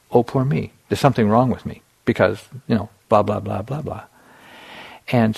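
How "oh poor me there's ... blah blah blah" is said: whiny inner voice. Retold or imitated. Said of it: "believing the story".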